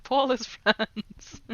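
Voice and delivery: laughing through France, slowly; slow chuckling mistake; amused misreading. Retold or imitated. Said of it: "Instead of Paul is French".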